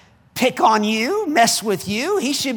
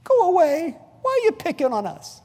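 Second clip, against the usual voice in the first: higher-pitched plaintive complaint; whiny protest; 6 semitones higher, 4 dB quieter than usual. Acted. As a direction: whine it like someone being picked on. Devils begging to be left alone.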